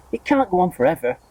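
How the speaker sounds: high urgent yell. A narrator's reading. Aunt yells at the growing peach, high and urgent. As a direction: keep yelling, worked up. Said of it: "Aunt Spiker yelled".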